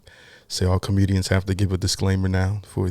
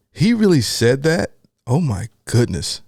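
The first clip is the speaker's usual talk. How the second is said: slow, high, louder disbelief; real shock; 6 semitones higher, 4 dB louder, slower than usual. Real, not acted. Reactor learning what Kanye said, genuinely stunned. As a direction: stretch the words in astonishment. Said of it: "this is a real reaction".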